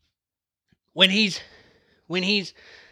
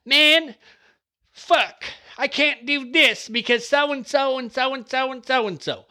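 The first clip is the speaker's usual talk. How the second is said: whiny excuse-maker; 5 semitones higher, slower than usual. Retold or imitated. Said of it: "be like".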